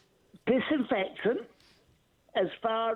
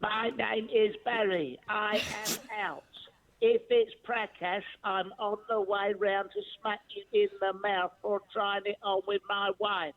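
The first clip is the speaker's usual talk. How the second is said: answering machine voice. Acted. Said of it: "am I speaking to somebody or a recorded message".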